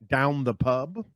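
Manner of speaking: "Down the pub" with the "at" dropped, said the British way; British correction. Shown as a demonstration. Correcting a cohost's British phrasing with a plain "Down the pub". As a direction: show how a Brit says "Down the pub". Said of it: "Let me do that".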